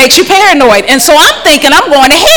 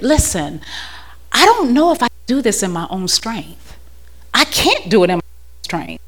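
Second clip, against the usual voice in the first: hushed retold prayer; 4 semitones lower, 6 dB quieter than usual. Retelling her prayer to God.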